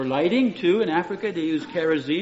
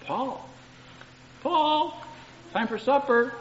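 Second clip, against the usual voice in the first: calling for supper; 7 semitones higher, slower than usual. Shown as a demonstration. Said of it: "My tone is gonna change".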